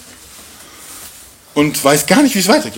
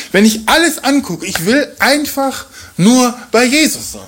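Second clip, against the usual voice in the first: longing Paul; 8 semitones higher than usual. Retold or imitated. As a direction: linger on Jesus, full of longing. Paul's longing voiced.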